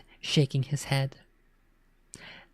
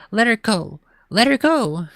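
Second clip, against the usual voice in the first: much higher, louder pleading yell; desperate yell; 7 semitones higher, 4 dB louder than usual. Acted. Girl yelling at brother to release friend, desperate shout. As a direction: demand it with all she has.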